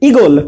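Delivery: ইগল in short form, brief first vowel. Shown as a demonstration. Teacher showing the shortcut way, ইগল said short. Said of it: "শর্টকাটে".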